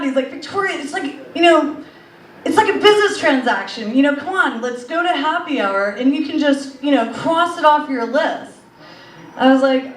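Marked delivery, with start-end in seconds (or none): 0.3-8.5 mock angry guy. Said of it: "And then he got so mad".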